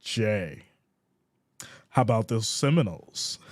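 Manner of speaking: put-on commenter, pausing after the name; mocking high-class cat. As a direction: lightly imitate a snooty fan. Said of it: "That's what you sound like".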